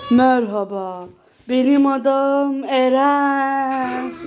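slow, low puppet voice for the toy; lightly voiced talking toy. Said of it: "biz de senin yerine bunu konuştururuz".

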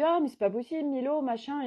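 retelling her own exasperation at the son; exasperated. Retold or imitated. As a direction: throw up her hands at the son.

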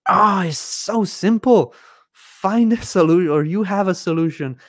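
pleading that it is so simple, voice climbing; emotional. Real, not acted. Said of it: "I don't know why I'm getting emotional".

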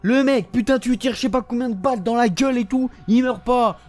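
real frustration boiling over; exasperated gamer rant. Real, not acted. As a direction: rant in outraged disbelief. Ranting at an unkillable game enemy.

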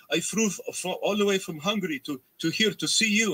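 high, excited put-on Hungarian accent, voiced lightly; imitated Hungarian accent. Hungarian fan greeting his hero, high excited Hungarian accent. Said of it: "Oh, what's the accent?".

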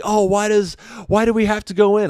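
put-on high, whiny kid complaint. Kids whining at the dad about going in, high and whiny. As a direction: whine like a kid told to come in. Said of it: "They turn to me like".

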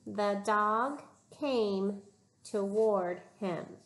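teacher modeling the sentence slowly and clearly; slow model reading. Shown as a demonstration. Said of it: "Here's the sentence".

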